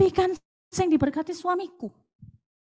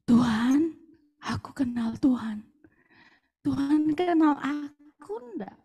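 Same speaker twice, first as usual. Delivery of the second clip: soft pleading question to God, partly whispered; quiet intimate prayer, slowing; hushed prayer; 3 dB quieter than usual. Retold or imitated. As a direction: ask God quietly and humbly.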